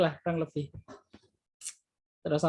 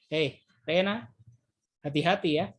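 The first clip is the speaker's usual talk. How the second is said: threatening intonation. Shown as a demonstration. Teacher demonstrating the same words as a mild threat. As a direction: drag out "Hei, Rena" and drop the pitch on hati-hati like a threat. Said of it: "tapi intonasi berbeda".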